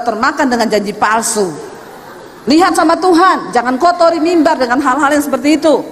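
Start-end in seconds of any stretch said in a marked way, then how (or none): 2.5-5.8 higher, louder stern exhortation; loud warning. Real, not acted. Preacher warning the church against political favors, loud and high. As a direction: raise the voice to warn the church.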